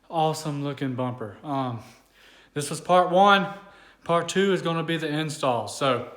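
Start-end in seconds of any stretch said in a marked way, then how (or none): 2.6-5.7 outro announcement. Real, not acted.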